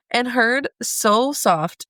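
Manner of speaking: very slow, fighting back tears; choked-up slow reading. Real, not acted. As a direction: read it barely holding it together. Resumes reading after tearing up.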